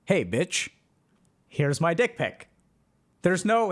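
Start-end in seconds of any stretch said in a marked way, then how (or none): 0.1-2.5 lower, rough crude-guy voice; crude dater. Retold or imitated. Mocking online daters, voicing a crude man, lightly lowered. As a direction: sleaze it out, blunt and lewd. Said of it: "It's like".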